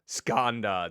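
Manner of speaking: "Skanda" as SKAHN-duh, broad a, stress on the first syllable; "Skanda" spoken slowly and clearly as SKAHN-duh; correct pronunciation. Shown as a demonstration. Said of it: "that's how you pronounce that".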